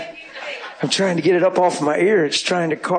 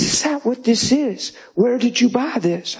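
amazed; 6 semitones higher than usual. Retold or imitated. Guy amazed at the gift.

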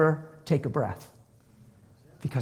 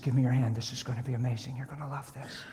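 soft reassurance; 4 semitones lower, 9 dB quieter, faster than usual. Retold or imitated. Retold reassurance before praying for woman.

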